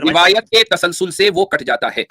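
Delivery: very slow, deliberate delivery; emphatic correction. Real, not acted. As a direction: spell it out slowly, word by word. Corrects the other man's wording.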